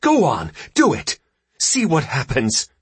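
high, loud goading shriek; furious wife daring him, pitch leaping up; shrieked taunt. A narrator's reading. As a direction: goad a husband at the top of the voice. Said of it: "she shrieked at her husband".

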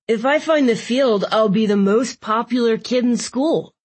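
put-on lightly whiny boy voice; a hint of a whining kid. A narrator's reading. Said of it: "Jimmy adopted a whiny voice".

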